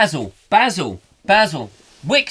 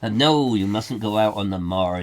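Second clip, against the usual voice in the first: warning moor local; 2 semitones higher, 7 dB louder than usual. Acted. Local warns visitor off the moors, mock alarm.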